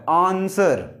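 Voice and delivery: 'आंसर' slowly with a long 'aa' first vowel; intended pronunciation. Shown as a demonstration. Teacher repeating the word for students, 'आंसर' as AAN-ser. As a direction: stretch the opening aa of 'आंसर'. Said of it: "आंसर लिखा हुआ है".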